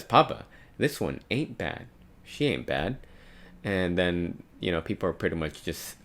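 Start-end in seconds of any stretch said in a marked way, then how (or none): 0.0-3.0 eager noble son, a bit higher on Papa; a spoiled son pleading with his father; a hint of a spoiled prince; lightly voiced noble son. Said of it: "wait, he says".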